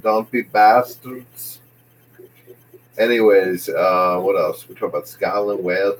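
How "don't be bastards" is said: very slow Northern Irish impression; Northern Ireland accent. Shown as a demonstration. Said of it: "That's like my Northern Ireland accent".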